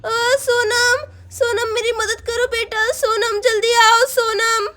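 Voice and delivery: crying, begging for help; mother weeping as she calls for help; tearful plea. Acted. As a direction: sob while calling the daughter. Injured mother cries for daughter.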